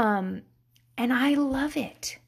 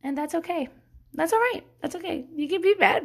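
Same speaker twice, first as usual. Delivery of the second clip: soothing parent; 7 semitones higher, faster than usual. Acted. Voices mom soothing the baby.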